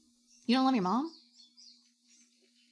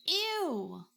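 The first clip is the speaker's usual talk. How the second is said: whispered ew; 5 semitones higher than usual. Real, not acted. Disgusted reaction to chatter.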